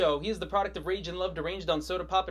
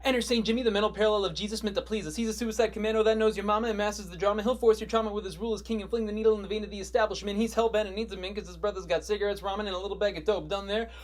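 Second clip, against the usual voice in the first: hyped introduction; 3 semitones higher, 4 dB louder than usual. Acted. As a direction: hype up the new character's entrance, building louder. Hyped entrance of Saint Jimmy.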